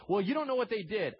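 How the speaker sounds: high, loud, defensive retort; protesting objection. Acted. Believer objecting to God's command to forgive, defensive. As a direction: burst in with an indignant excuse. Acted objection answered by God.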